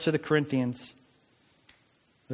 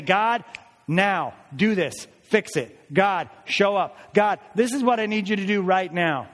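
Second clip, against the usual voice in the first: higher, pushy mock demands of God; demanding prayer; 5 semitones higher, 3 dB louder than usual. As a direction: boss God around impatiently.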